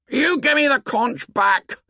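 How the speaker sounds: put-on high-pitched squabbling boy; indignant childish yell, held in volume; angry demand. A narrator's reading. Tussle over the conch.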